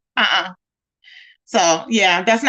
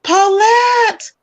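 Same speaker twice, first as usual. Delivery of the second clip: excited squeal; 5 semitones higher, much slower than usual. Real, not acted. Streamer spotting a friend in chat, high excited squeal. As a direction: squeal her name with delight.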